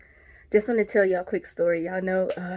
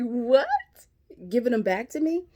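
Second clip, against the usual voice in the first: surprised; 4 semitones higher than usual. Retold or imitated. Shocked by the caller's offer.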